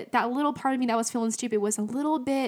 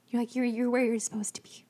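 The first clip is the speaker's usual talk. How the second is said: hushed whisper of comfort; whispered reassurance. Retold or imitated. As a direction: breathe it like a gentle secret. Holy Spirit's voice, retold softly.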